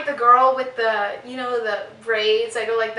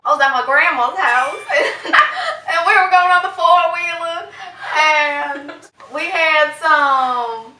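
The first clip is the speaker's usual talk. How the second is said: mock Deep Southern accent; 4 semitones higher than usual. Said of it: "Deep Southern".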